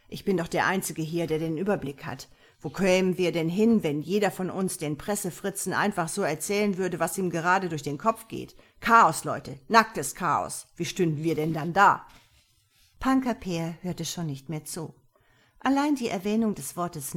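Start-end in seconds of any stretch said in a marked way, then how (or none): 0.1-12.1 indignant boss, building louder; acted officious rant, lightly rasped; rasping authority. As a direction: lecture the group, rising to a loud protest. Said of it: "schnarrte er".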